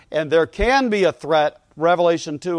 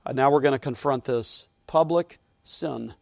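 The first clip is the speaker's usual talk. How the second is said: usual speaking voice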